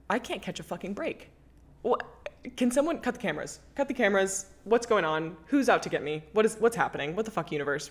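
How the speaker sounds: imitating her past self ranting at the universe; exasperated rant. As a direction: throw your hands up and vent.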